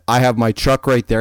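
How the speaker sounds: lightly imitated European accent; a stab at a Russian-like accent. Helpful stranger pointing out his truck, European accent. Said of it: "a heavy European-ish accent".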